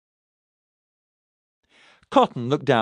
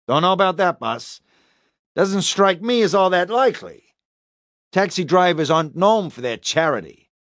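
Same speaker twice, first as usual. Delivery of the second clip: higher-voiced policeman doubting the story; sceptical officer; 6 semitones higher than usual. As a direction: cast doubt on the suspect's good intentions. Sceptical officer doubts suspect's account.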